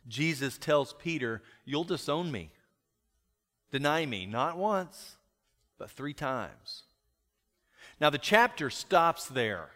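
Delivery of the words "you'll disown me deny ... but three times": understated, matter-of-fact prediction. Acted. Jesus telling Peter he'll disown him, matter-of-fact. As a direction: state it evenly, slowing on the last words. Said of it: "In a matter-of-fact tone".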